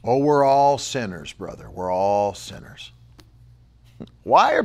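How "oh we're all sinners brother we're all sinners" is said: low, soft sanctimonious murmur; sighing mock humility; mock pious Christian. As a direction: imitate a resigned churchgoer. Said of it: "Thank you, Nancy".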